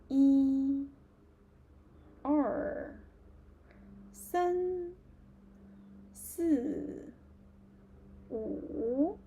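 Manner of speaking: teacher counts aloud for the class to join; counting demo. Shown as a demonstration. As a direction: count aloud, each tone clear. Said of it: "say number zero to number ten together".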